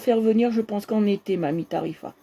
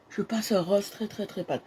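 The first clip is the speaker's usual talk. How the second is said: can't speak louder; 7 dB quieter than usual. Real, not acted. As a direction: hold the voice down, too weak to project. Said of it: "je peux pas parler plus fort". (voix faible, presque éteinte)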